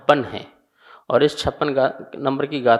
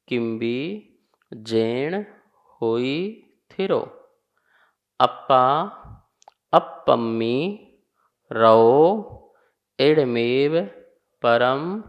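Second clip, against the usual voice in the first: short phrases with pauses between; phrase-wise teaching recitation. Shown as a demonstration. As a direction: recite the verse in small phrases. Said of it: "फिर देखिए".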